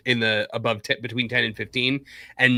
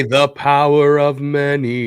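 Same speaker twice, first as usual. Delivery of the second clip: dramatic line reading; 3 semitones higher, 6 dB louder, slower than usual. Shown as a demonstration. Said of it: "Now just say".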